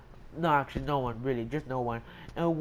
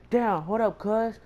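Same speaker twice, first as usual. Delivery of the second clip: higher, animated student voice; high mock protest; retold protest; 6 semitones higher than usual. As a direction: imitate a student pleading for time.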